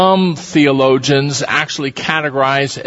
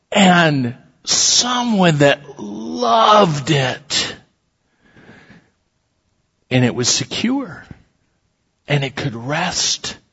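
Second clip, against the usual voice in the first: choked up; 3 dB quieter than usual. Real, not acted. Preacher moved by the story.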